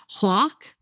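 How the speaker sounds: Jersey "Hawk" with a rounded aw; old New Jersey accent. Shown as a demonstration. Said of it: "is how I used to say it".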